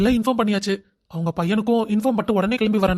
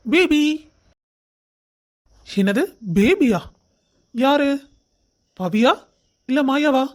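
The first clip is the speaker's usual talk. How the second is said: teasing; 4 semitones higher, slower than usual. Acted. Teasing friends about "baby.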